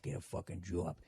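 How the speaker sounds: low, hushed mock muttering; muttering to oneself. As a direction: mutter it under your breath, imitating listeners. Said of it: "just muttering to yourself".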